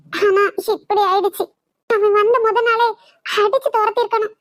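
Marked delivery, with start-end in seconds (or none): 0.1-1.4 tearful break. Acted. Tells of sister's ruined life.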